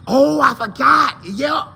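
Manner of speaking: high, drawn-out mock shout; exclaimed realization. Fan answering who reminds y'all of Mike Evans, exclaimed realization. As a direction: burst out as if suddenly remembering.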